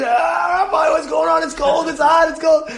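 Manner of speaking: mock grumbling about the air conditioning; complaining congregants.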